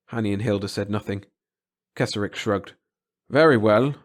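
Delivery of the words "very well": tension gone. A narrator's reading. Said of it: "a voice that had lost all its tension".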